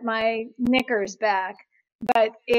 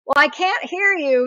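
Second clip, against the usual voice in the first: mild mock yell, slightly raised pitch; retold yelling; 5 semitones higher, 4 dB louder than usual. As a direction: imitate a man calling down a bad line. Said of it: "he's yelling at me".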